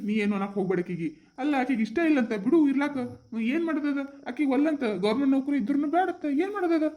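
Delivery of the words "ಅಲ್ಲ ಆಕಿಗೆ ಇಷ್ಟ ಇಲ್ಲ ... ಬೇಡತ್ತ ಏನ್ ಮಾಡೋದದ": high-pitched helpless protest; acted exasperated father; exasperated arguing. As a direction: argue back in a raised pitch. Father argues back at his wife.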